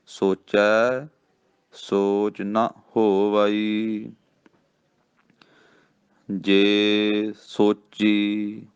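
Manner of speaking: very slow intoned reading, breaks between phrases; slow recitation with pauses. Shown as a demonstration. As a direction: chant the verse with marked rests. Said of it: "ਇੱਥੇ ਵਿਸਰਾਮ".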